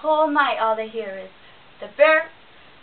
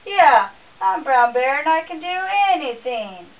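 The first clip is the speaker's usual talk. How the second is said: booming bear; 2 semitones higher, 9 dB louder than usual. A narrator's reading. Bear bragging to himself, booming loud. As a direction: puff up and boom like a proud bear.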